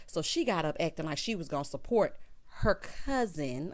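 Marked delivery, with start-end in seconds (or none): 2.6-3.7 "her cousin" drawn out slowly; verbal air quotes. Real, not acted. Recapper doubting the cousin story, slow stress on "cousin". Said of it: "I'm doing air quotes".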